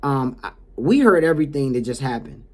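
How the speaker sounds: re-enacted firm professional confrontation; mildly stern reprimand. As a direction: lay out the facts sternly. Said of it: "in a stern voice like that".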